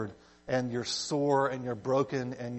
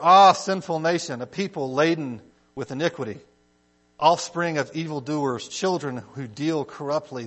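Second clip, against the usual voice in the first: declaimed verse, strong opening cry; a prophet's lament, read aloud; scripture reading. Acted. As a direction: read it out solemnly, easing down to the end.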